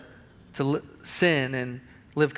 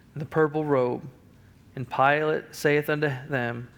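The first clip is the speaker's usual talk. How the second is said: normal talking voice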